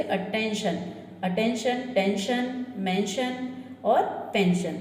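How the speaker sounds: slow, careful "शन" ending on each word; shun ending demo. Shown as a demonstration. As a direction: spell out the shun sound slowly. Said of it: "इस तरह से इनका sound होता". (धीमे "शन" उच्चारण का प्रदर्शन)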